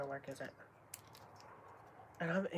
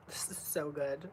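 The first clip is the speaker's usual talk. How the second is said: whisper; 2 semitones lower than usual. Real, not acted. Vlogger tasting couscous, first whispering it's so good. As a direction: whisper it in delight. Whispered then repeated aloud.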